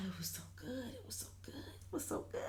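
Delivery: breathless hushed whisper. Real, not acted. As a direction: whisper it like a secret delight. Savoring the episode, whispered.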